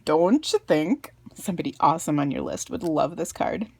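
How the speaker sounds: a light Minnesotan lilt on "don't you think"; Minnesotan accent. Real, not acted. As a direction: let the Minnesota vowels slip out. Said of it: "I hope you enjoy my accent".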